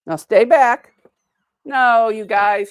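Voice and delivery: firm command. Real, not acted. Ordering dogs back.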